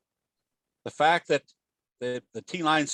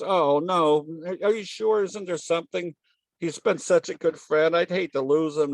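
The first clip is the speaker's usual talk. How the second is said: higher-pitched pleading, hammed up for a joke; mock distressed pleading; 5 semitones higher than usual. Owner refuses to believe parakeet is dead, mock distressed pleading. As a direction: imitate an upset owner insisting, pitch raised.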